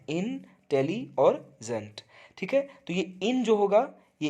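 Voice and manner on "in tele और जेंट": "in, tele और जेंट" slowly, each syllable set apart. Shown as a demonstration. Teacher splitting intelligent for students, "in, tele और जेंट" syllable by syllable. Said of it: "उसमें तीन syllables हैं".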